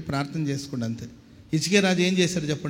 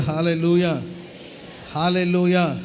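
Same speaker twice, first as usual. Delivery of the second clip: loud hallelujah; slower than usual. Real, not acted. Congregation told to say it loud, loud call. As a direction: call out hallelujah with full voice. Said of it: "చెప్పండి గట్టిగా".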